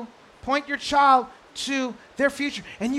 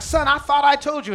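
a hint of scolding parent, a bit louder; exasperated parent; 3 semitones higher, 4 dB louder than usual. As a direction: scold the child mildly. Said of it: "You're like".

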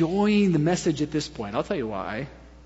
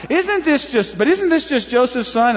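higher-pitched sceptical question; doubt; 5 semitones higher than usual. Shown as a demonstration. Crowd doubting the local man's claim, incredulous. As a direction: restart the question, voice lifted in doubt. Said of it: "so that's the doubt kind of question".

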